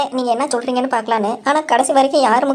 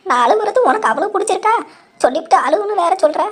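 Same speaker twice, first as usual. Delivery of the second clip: fake crying; 6 semitones higher than usual. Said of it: "இவ்வளோ நேரம் அழுத".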